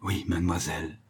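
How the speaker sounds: a soft, barely voiced oui; murmured. A narrator's reading. Boy murmurs his guilty yes to the old lady, softly. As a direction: murmur it down at the flowers. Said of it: "je murmurai".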